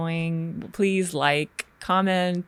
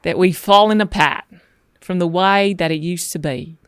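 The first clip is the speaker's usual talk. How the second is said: put-on Australian accent; 4 dB louder than usual. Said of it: "my terrible Australian accent".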